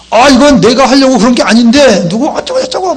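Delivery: high-pitched, protesting excuse-maker; making excuses. Acted. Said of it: "얼마나 핑계를 많이 대는지". (핑계를 대는 높은 목소리)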